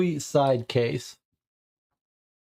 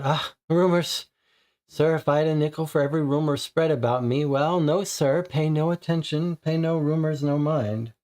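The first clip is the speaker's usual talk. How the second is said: dismissive lady; 3 semitones higher than usual. Acted. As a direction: wave the rumors away, slightly flustered. Voices the lady brushing off rumors.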